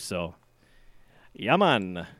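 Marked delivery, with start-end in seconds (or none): 1.3-2.1 playful fake Jamaican lilt; mock Jamaican accent. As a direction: slip briefly into a put-on Jamaican accent. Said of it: "that Jamaican accent, once you get started".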